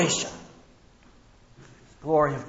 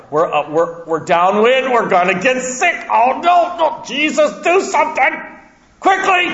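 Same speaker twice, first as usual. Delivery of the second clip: scared disciples losing their nerve, rising to a cry; panicky disciples; 4 dB louder than usual. Retold or imitated. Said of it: "but I can hear them".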